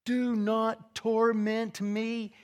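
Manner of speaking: high, slow, stretched-out mock cry; imitated crying out. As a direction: draw each word out in a lightly dramatized cry. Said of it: "he was crying out".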